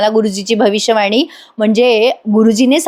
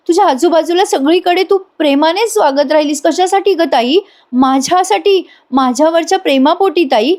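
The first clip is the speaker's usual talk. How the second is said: higher, pleading sister-in-law close to tears; remorseful woman voiced higher and near tears; tearful remorse; 3 semitones higher than usual. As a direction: beg forgiveness with a choking, rising voice. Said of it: "Kavya म्हणते".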